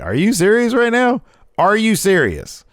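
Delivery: high, loud disbelieving outburst; exaggerated "you can't mean it" voice; mock incredulity. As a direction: imitate someone appalled, pitch shooting way up. Voices Sasha's incredulous look.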